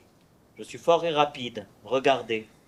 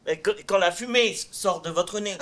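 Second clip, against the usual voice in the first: amused tone; 4 semitones higher than usual. Acted. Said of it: "un ton, euh, amusant".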